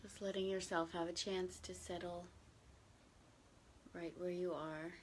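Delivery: gentle, even meditation guidance with long silences; unhurried, settled meditation voice; guided meditation. Real, not acted. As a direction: ease listeners into stillness, slightly hushed, leaving long pauses.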